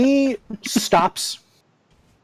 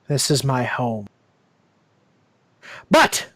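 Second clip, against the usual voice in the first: regretful whisper; 3 semitones lower than usual. Acted. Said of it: "he whispers very regretfully".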